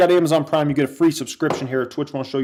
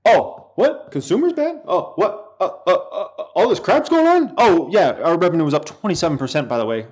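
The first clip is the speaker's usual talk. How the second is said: Palantir. Acted. Streamer voicing the company shrugging off bad times, mock nonchalance. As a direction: play innocent, then toss off the boast. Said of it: "And Palantir's like".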